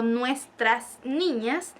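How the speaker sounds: drawn out very slowly, syllable by syllable; slow example phrase. Shown as a demonstration. Teacher modelling Spanish for French students, very slow. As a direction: spell the phrase out for learners.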